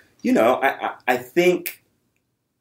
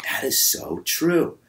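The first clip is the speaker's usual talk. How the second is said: a hint of a nodding fan; slow agreeing audience member; slower than usual. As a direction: drawl it like an impressed viewer.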